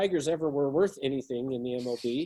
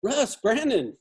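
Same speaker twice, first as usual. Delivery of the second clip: higher, familiar call-out of names; long-lost acquaintance greeting; 4 semitones higher, slower than usual. Shown as a demonstration. Coach showing a caller greeting someone not heard from in a while, familiar. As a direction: greet them like someone you know. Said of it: "calling somebody you hadn't talked to".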